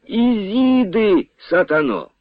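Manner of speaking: high, slow drawn-out cry from a nightmare; dreamer's high, slow rooster-like yell; sleepy yelling. A narrator's reading. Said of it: "зарепетував Павло".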